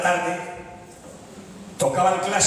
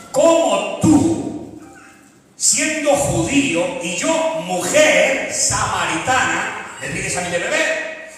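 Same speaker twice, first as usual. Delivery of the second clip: surprised woman; 3 dB louder, much slower than usual. Acted. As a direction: stretch it out in disbelief. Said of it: "esta mujer se sorprende".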